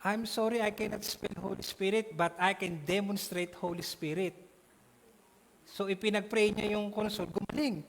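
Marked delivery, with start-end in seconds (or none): 0.0-4.4 bishop's reply. Retold or imitated. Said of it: "Sabi niya".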